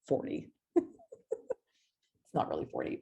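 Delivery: laughing through the words; chuckling while admitting the score. Real, not acted.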